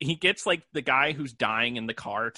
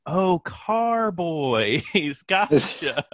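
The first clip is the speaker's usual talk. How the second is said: dawning realization; 3 semitones higher, 4 dB louder, much slower than usual. Retold or imitated. Retold realization reading a synopsis.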